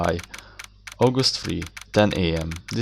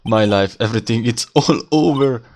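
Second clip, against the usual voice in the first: mild mock cry of doom; half-hearted dramatic outburst; mock wailing; 2 semitones higher, 4 dB louder than usual. Client cries out across the lobby, mock despair. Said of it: "your client screaming over there".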